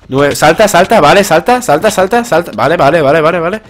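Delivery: high, loud repeated commands; frantic gamer self-coaching; urgent excitement. Real, not acted. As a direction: urge yourself to jump. Urgent jumping during fight.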